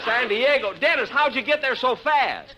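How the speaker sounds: high, loud disbelief; can't believe what he hears; laughing surprise; astonished. Acted. Astonished at Dennis.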